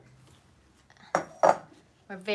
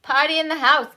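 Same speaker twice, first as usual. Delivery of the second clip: high, loud party cheer; excited rallying call; 7 semitones higher, 6 dB louder than usual. Real, not acted. Host starting the live with kids and viewers, excited shout. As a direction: whoop it up to kick things off.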